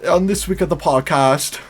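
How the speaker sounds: hammy, badly faked British accent. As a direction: imitate a poor British podcast intro. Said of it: "The worst British accent I've ever".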